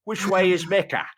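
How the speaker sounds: mock Palestinian Arabic accent impression. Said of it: "to hear him do a Palestinian accent".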